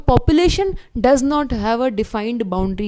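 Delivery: spelled out slowly for notes; slow, deliberate dictation pace; dictating a key definition, slowly. Shown as a demonstration. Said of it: "ये तुमको पता होना चाहिए".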